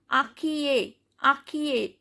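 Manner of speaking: "acquier" said as "a-kyé"; "acquier" with no final consonant; silent final T. Shown as a demonstration. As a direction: say "acquier" ending on the vowel. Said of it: "T is silent".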